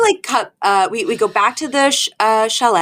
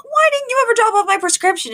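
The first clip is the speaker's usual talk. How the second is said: pharmacist voice; faster than usual. Retold or imitated. Pharmacy caller voiced on phone.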